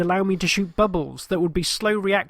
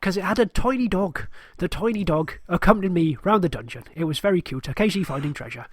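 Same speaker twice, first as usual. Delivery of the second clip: dog voice; 2 semitones higher than usual. Acted. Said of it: "that's my dog voice".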